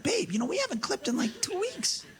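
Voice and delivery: high, pleading complaint to his wife; whiny husband. Retold or imitated. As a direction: whine that it's been two weeks. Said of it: "I'm like".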